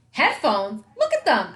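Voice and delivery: angry snap at his mom; angry outburst. A narrator's reading. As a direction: fire it back in disbelief. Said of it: "I said angrily".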